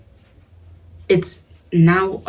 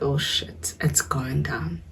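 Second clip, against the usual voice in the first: hushed, breathy aside; scared whisper; 6 dB quieter, slower than usual. Retold or imitated. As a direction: whisper it like you're hiding in your room. Sees trouble coming, whispered aside.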